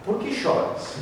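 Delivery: soft, high, breath-only asking; acted reverent near-whisper; timid, hushed question. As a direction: ask gently, barely daring to speak. Timidly asking weeping Jesus why.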